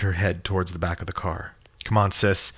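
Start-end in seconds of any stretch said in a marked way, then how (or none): 1.8-2.5 soothing. Acted. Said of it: "in a soothing voice".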